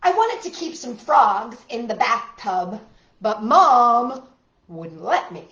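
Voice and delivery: deliberate, expressive picture-book narration; reading to children. A narrator's reading. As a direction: lean on key words for young listeners.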